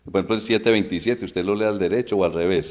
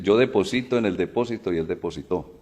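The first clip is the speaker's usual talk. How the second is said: "deposito" on SI, "depósito" on PO, "depositó" on TÓ; contrasting word stress. Shown as a demonstration. Teacher showing accent types, contrasting stress on "deposito", "depósito", "depositó". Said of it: "una que lleva acento, una es aguda, la otra es grave".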